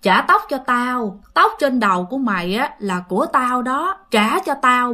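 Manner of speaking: lightly voiced ghost woman, drawing words out; understated gloomy spirit; eerie ghost voice. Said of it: "nghe cái giọng nói đó nữa".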